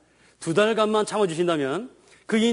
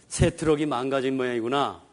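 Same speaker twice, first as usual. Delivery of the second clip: gentle dad; 4 semitones lower than usual. Shown as a demonstration. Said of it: "이렇게 읽어주면".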